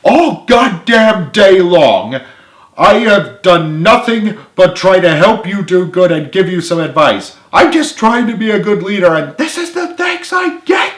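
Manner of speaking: loud, high, furious shouting rant. Acted. Leader yelling at his ungrateful friends, furious. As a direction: tear into the group at full blast.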